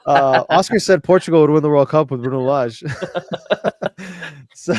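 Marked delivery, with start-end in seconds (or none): 0.5-2.8 louder, amused through laughter; laughing tease. Real, not acted. Host teasing Oscar over his World Cup prediction, laughing. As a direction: tease him while laughing.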